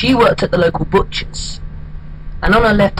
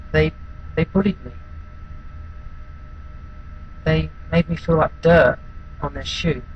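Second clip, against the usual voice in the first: halting and softer, with long pauses; subdued confessional monologue; 6 dB quieter than usual. Acted. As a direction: confide it quietly, searching for the words. Performs a bullied outcast's monologue.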